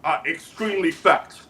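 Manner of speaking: measured, halting dictator voice; North Korean leader character. Acted. Leader boasts about noodles and gifts, measured dictator voice. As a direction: boast in deliberate, accented phrases.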